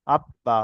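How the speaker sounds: "আব বা" with ব sounded twice; doubled consonant. Shown as a demonstration. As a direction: close on "আব", then release a separate "বা". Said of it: "দুবার উচ্চারণ হবে". ("আব বা"-তে ব দুবার উচ্চারণ)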